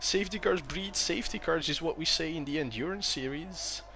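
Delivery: normal talking voice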